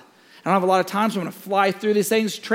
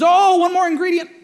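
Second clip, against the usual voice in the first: sly sing-song; 12 semitones higher, 7 dB louder than usual. Retold or imitated. Mom springs the twist.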